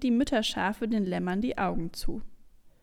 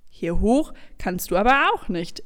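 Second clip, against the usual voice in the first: lauter, bestimmter Widerspruch; streng; 6 dB louder than usual. Acted. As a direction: lass keinen Zweifel zu. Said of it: "erwidert ihr streng". (streng abweisend)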